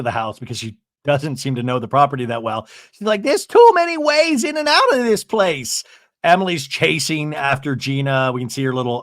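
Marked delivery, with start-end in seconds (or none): 3.2-5.8 high-pitched mock frustration; retold flustered complaint. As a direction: imitate someone lost and fed up. Acted frustration, lost at house.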